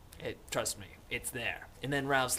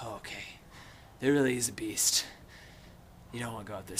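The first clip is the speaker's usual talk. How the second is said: shaken hush; 3 semitones lower, faster than usual. Retold or imitated. Boys shaken after fleeing, acted.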